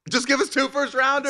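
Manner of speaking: high, pleading, half-laughing; mock desperate plea. Imitating the Packers front office, high desperate plea. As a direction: beg like a panicked front office, hammed up. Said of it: "they are panicking".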